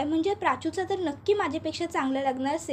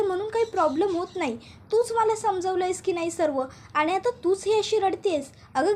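mock comforting; 3 semitones higher than usual. Friend comforting crying girl.

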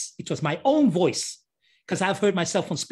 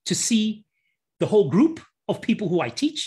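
usual speaking voice

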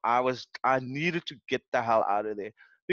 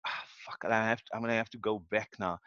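muttered giving up; 5 semitones lower, 6 dB quieter, faster than usual. Retold or imitated. Retold giving up, unvoiced.

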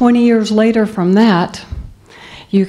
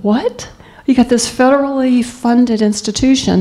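higher, stunned disbelief; outraged girl who can't believe it; indignant disbelief; 5 semitones higher than usual. Retold or imitated. Girl told she can't apply, high indignant disbelief. Outraged girl's inner reaction.

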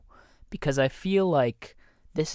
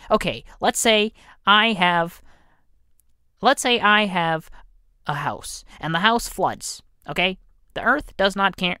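higher, louder put-on voice all the way; 6 semitones higher, 5 dB louder than usual. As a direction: pitch it up and push it out loud. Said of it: "I'm not gonna do that voice anymore".

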